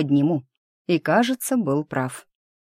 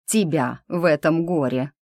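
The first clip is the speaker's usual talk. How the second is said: lightly pressed, deliberate "тебя"; pointed emphasis. A narrator's reading. Brunet corrects himself to the heroine, "тебя" said with pointed pressure. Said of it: "с нажимом добавил".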